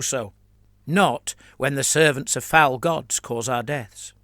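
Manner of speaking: pompous, meandering sermonising cleric; a touch of droning sermon; rambling priest. Acted. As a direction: blather on to bury the meaning. Biagino continues his sermon.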